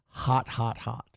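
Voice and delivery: low sung-ish quote; impression of a singer.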